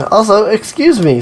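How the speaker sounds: hiccuping mid-word. Real, not acted. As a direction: let a hiccup break in. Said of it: "That was a hiccup".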